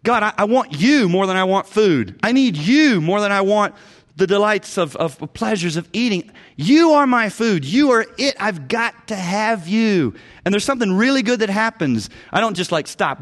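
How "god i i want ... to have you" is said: fervent prayer. Retold or imitated. Pastor voicing his plea to God, louder and fervent. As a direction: pour it out, You are my food. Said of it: "where you show God".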